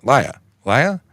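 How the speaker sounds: "liar" as "lie-ya", New York style; testing a mock New York accent on "liar"; New York accent attempt. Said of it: "It sounds like a liar".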